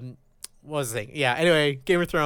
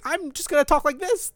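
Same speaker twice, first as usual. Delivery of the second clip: higher-pitched, badly done celebrity impression; Christopher Walken; 8 semitones higher, 4 dB quieter than usual. Co-host tries an actor's cadence on the fly, bad Walken impression. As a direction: attempt a famous actor's odd cadence, poorly. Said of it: "Kinda like Christopher Walken".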